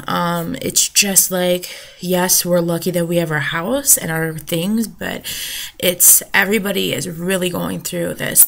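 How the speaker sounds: usual speaking voice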